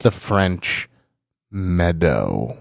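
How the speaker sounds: mock insistent friends. Retelling how friends insisted, in a low mock voice. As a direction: drop low and drag it out to imitate them. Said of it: "finally they're like".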